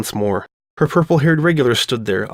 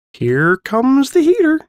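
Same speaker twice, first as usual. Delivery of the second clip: mock dramatic warning; 13 semitones higher, 4 dB louder, slower than usual.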